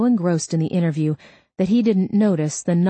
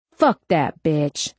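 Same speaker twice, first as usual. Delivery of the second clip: snapped; slower than usual. Acted. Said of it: "Gordon snapped".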